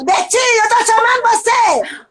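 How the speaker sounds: loud high call across the house. Retold or imitated. Wife calling her ex-husband from the next room, loud. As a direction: call him, raising the voice. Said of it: "enquanto não berra, fala".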